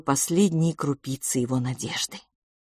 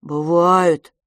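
louder, stubborn insistence; 7 dB louder than usual. Acted. Boy stubbornly contradicts his brother. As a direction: dig in your heels. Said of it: "упрямо сказал Франциск".

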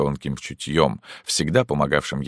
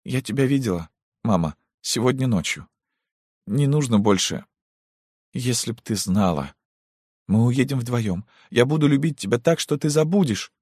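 tearful plea; 8 semitones higher than usual. Acted. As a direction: promise her love through tears. Daughter pleading to mother. (умоляюще и нежно)

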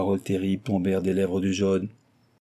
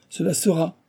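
firm affirmation; 8 semitones higher than usual. A narrator's reading. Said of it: "affirma le Japonais".

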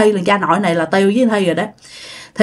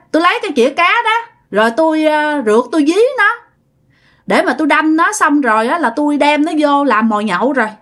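brazen, higher-pitched taunting; insolent confession; 5 semitones higher, faster than usual. Acted. Neighbor dares grandma to report him, insolent and defiant. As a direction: boast of it and dare the listener. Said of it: "nhận theo cái kiểu rất là thấy ghét, rất là bố láo".

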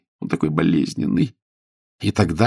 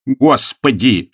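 slow, loud, drawn-out exclamation; shocked cry; 5 semitones higher, 5 dB louder, much slower than usual. A narrator's reading. Millionaire accused of murder, crying out slowly and loud. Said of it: "вскричал миллионер".

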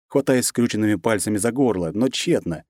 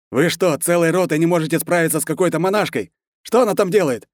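high, loud order to his soldiers; furious colonel yelling at men; angry shout; 9 semitones higher, 3 dB louder than usual. A narrator's reading. Colonel scolds over radio.

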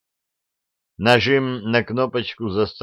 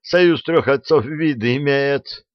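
wailing plea; 5 semitones higher, 4 dB louder than usual. Acted. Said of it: "взвыл атаман".

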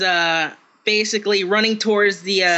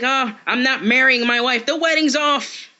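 higher, hammed-up cry that the wedding's off; mock dramatic groom; 5 semitones higher than usual. Friend at bachelor party mocking the film, hammed-up despair. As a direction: play a groom calling it all off in mock despair.

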